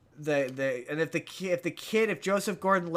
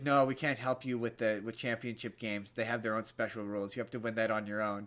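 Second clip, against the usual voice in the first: a low, soft angel voice, a touch faster at the end; lightly voiced angel laying down the rule, low and soft; imitating the angel; 7 semitones lower, 6 dB quieter than usual. Angel telling the kid he's on his own, low and soft. Angel refuses to help in championship.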